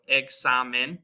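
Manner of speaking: "examen" with a KS and an open A like in car; Spanish examen. Shown as a demonstration. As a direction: say "eksamen" with an open A. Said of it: "K S sound".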